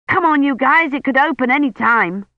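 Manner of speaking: put-on high, urgent boyish call; eager boy calling. A narrator's reading. Colin urging friends to hurry, high boyish call. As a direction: hurry the others along.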